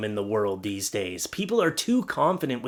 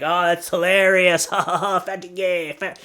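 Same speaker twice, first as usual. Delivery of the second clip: mock teen hilarity; 4 semitones higher than usual. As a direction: imitate kids cracking up at a rude word. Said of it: "it would just be like".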